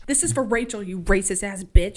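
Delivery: loud, punched insult; mean every word; angry. Real, not acted. Viewer cursing the villain, loud and angry. Her own outburst at a character.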